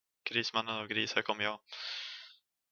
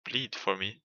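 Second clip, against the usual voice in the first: imitating grumpy villain; 3 dB quieter, slower than usual. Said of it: "Han lät typ lite så här sur".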